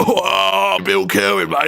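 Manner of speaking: high-pitched mock dad voice; Bill impression. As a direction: do a playful caricature of the dad. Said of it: "then you know that was him".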